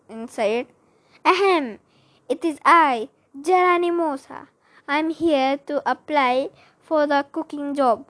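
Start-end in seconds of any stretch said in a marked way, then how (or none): 1.2-8.0 best lady voice. Acted. Mouse disguised as cook at the door, mild lady voice. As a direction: lightly put on a lady's voice. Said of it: "I squeaked in my best lady voice".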